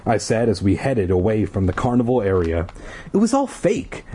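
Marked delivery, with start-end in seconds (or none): 3.1-4.1 murmured. Acted. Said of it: "Ashley murmured".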